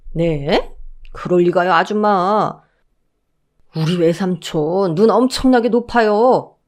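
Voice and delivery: guard mocking the mother-in-law's claim; lightly voiced teasing guard. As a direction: needle her smugly.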